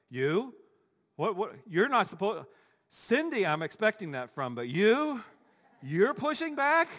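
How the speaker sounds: mock disbelief, rising high at the end; baffled, incredulous questioning. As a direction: act stunned that they of all people would do this. Acted surprise at nice person pushing back.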